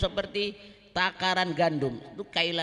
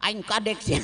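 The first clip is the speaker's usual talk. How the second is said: Banten Sundanese; 4 dB louder than usual. Acted. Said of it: "Bahasa Sundanya tuh, bahasa Sunda Banten tuh".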